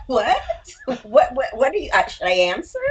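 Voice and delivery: lightly imitated Valley-style rising tune on every phrase; ending each line as if asking, playfully; mock uptalk. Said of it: "the voice going up at the end of a statement like it's a question".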